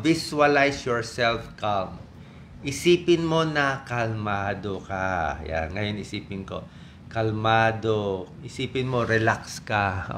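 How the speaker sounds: slow, soothing calm-down voice. Shown as a demonstration. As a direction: talk them slowly into calm. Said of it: "Babagal na yung boses mo". (mahinahon at mabagal na boses)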